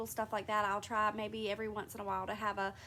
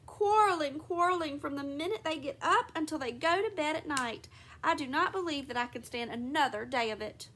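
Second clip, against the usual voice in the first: exasperated; 4 semitones higher than usual. Acted. Exasperated mother to herself.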